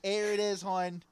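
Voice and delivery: high Baltimore "air it is, hon"; Baltimore accent. Acted. Host teasing his own game-day slip, Baltimore accent. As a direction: drop the th, Baltimore style. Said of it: "the accent does come out".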